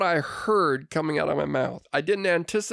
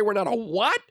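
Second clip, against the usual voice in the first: disbelieving question; 5 semitones higher than usual. Retold or imitated. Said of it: "And I wanted to say".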